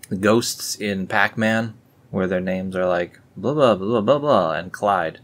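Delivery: ordinary talk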